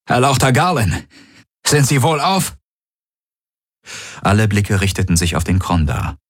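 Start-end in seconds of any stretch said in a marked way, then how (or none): 0.1-2.6 higher, lightly voiced soldier asking after her lord; a respectful alien guard checking on him; deferential guard. A narrator's reading. Tari asks Garlen if he is unharmed, higher deferential voice.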